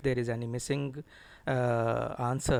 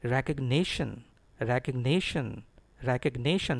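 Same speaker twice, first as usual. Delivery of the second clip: recognition with the NI syllable stressed; careful model recognition, stressed on NI. Shown as a demonstration. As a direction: lean on the NI in recognition, falling after it. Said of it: "the stress is on N I".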